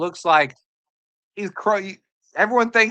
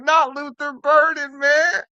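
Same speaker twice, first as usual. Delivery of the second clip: mock bawling; 9 semitones higher, slower than usual. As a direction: overdo the crying rookie, pitched way up. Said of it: "he's bawling".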